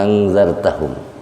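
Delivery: first "A" of "Angzartahum" held very long; one long unbroken vowel opening "Angzartahum"; isba' six counts. Shown as a demonstration. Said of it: "isba' namanya".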